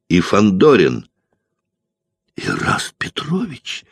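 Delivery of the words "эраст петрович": high squealed name; squeal of joy. A narrator's reading. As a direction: squeal his name in delight. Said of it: "взвизгнула Варя".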